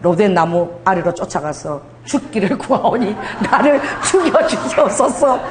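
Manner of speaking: slow laughing plea to die, rising; mock Elijah plea. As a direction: ham up a despairing prophet. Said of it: "무슨 기질도 있다는 거예요?".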